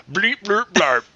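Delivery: silly nonsense noises imitating foreign speech; mock foreigner gibberish. Podcaster showing foreigners what they sound like, mock gibberish. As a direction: blurt out mock gibberish syllables. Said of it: "this is what you sound like to us".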